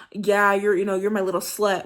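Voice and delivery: a loud, rough degrading line; degrading dirty talk. Shown as a demonstration. Showing how lovers talk degrading in bed. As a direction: spit it out like an insult. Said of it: "instead of saying".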